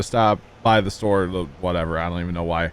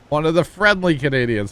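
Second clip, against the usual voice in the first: higher, laughing through "One of the friendly Canadians"; laughing repeat; 7 semitones higher, 5 dB louder than usual. Real, not acted. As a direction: chuckle as you repeat it.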